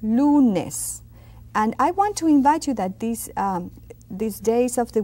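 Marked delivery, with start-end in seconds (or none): 0.0-1.0 "Lunes" with a pure U, louder; clear U in lunes. Shown as a demonstration. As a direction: round the U in "Lunes". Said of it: "See that you?".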